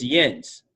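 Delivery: yins said as one nasal syllable, yinz; Pittsburgh yins. Shown as a demonstration. Pittsburgh local demonstrating yins to the host, plain Pittsburghese. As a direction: Pittsburghese yins, like saying you guys. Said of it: "one of the most popular ones".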